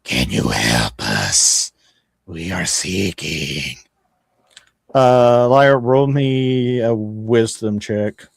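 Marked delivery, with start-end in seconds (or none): 0.0-3.8 much lower, slow gravelly creature voice; rough gravelly voice. Acted. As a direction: rasp it out low and slow like something inhuman. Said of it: "in this rough, gravelly sounding voice".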